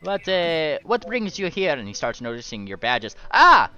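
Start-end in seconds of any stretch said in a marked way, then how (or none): 0.0-1.7 a jovial host voice, much higher and louder. Acted. Host NPC welcomes the adventurers, jovial high voice. 3.3-3.7 a jovial host voice, much higher and louder. Acted. Host NPC welcomes the adventurers, jovial high voice.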